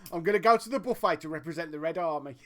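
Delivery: quick mock Yorkshire accent. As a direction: quote it fast in Yorkshire. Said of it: "it's when he says".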